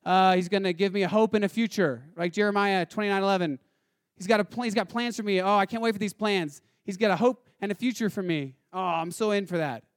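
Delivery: mildly gushing, eager believer; mock excitement. Believer keen on the promised benefits, mock excited. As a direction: imitate someone excited about the perks. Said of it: "excited about, uh, the benefits".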